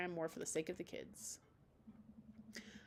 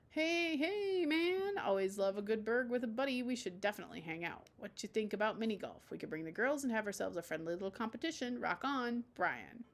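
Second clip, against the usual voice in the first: Brian's voice. Acted. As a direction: read it like a pumped-up sports dad. Reading Brian's message aloud.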